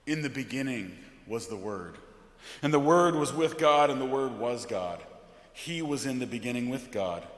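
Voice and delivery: measured, weighty liturgical reading; solemn scripture reading. Acted. Pastor reading John's prologue from the pulpit, solemn.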